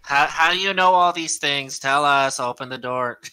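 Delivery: loud pleading at a locked door; imitated frantic demand. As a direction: act out someone shouting to be let in. Acts Joan banging on the door.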